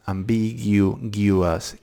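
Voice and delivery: "ambiguous" drawn out very slowly, each syllable separate; slow right down on "ambiguous" and land the "guous"; careful slow-motion "ambiguous"; very slow model word. Shown as a demonstration. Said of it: "It's this guous that trips me up".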